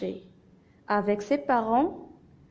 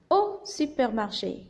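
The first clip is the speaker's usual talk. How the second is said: measured teacher's dictation; syllable by syllable. Shown as a demonstration. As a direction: read it out in separate syllables for children. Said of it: "j'ai séparé le texte en syllabes".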